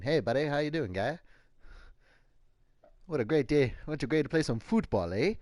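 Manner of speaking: put-on jokey stereotype Canadian accent; mock Canadian accent. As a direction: play the friendly Canadian buddy, Canadian accent all through. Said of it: "I'll put on my Canadian accent".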